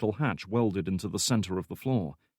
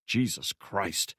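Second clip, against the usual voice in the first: shocked gasp; much slower than usual. A narrator's reading. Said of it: "O'Rourke gasped".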